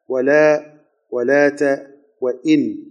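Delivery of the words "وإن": وإن with an i after the hamza and a vowelless final n; kasra on hamza, sukun. Shown as a demonstration. Teacher naming the particle to students, وإن pronounced wa-in. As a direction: say وإن as wa-in, short i, closed on a plain n. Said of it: "بكسر الهمزة وسكون النون".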